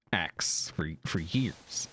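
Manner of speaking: whispered aside; breathy whispered remark. Real, not acted. Aside about naming things X.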